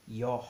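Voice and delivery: "Ió" with a long open O and an audible H after it; aspirated Ió. Shown as a demonstration. Teacher showing the correct sound, "Ió" ending in an aspirated H. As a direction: breathe out the end of "Ió" as "yohh". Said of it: "aspirado porque ele tem um sinal".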